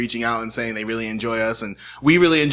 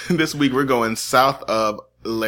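mock French; slower than usual. Shown as a demonstration. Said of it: "That is French".

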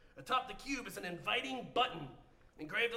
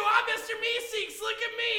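Mister Meeseeks; 10 semitones higher, 6 dB louder than usual. Acted. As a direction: announce yourself with eager slowness. Another Meeseeks introduces itself.

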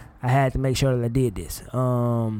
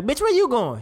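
sassy tenant; 8 semitones higher than usual. Retold or imitated. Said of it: "she's like".

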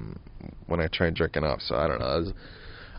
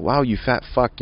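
higher-pitched mock amazement at himself; self-shaming; 6 semitones higher than usual. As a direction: shame yourself with a mocking wow. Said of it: "I started shaming myself".

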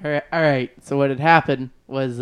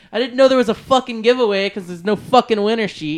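heated retold complaint; 5 semitones higher, 3 dB louder than usual. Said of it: "quoting yourself verbatim".

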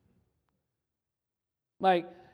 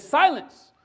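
thundering wizard; 6 dB louder than usual. Acted. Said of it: "cuts her off and says".

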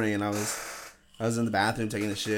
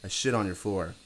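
higher pitched mocking quote; squeaky parody of the man; high mock homeless man voice; 11 semitones higher than usual.

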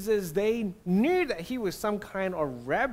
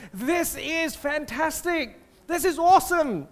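thrilled teacher praising the disciples, higher and emphatic; really excited; 4 semitones higher than usual. Acted. Imagining himself as Jesus hearing the right answer, really excited. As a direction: celebrate a huge breakthrough with rising energy. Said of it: "Jesus really excited".

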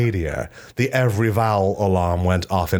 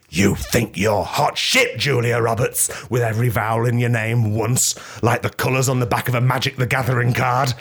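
mock taunt; 4 semitones higher than usual. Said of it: "and said".

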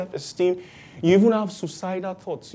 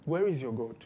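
mocking onlookers; 9 dB quieter than usual. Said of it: "imagine all the people coming to look and saying".

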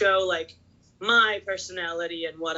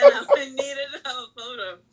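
laughing while talking; 6 semitones higher, 3 dB louder than usual. Real, not acted.

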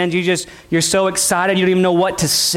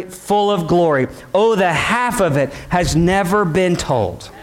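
hymn recitation; 3 semitones higher than usual. Acted. Recites old hymn lyrics.

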